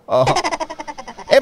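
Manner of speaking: usual speaking voice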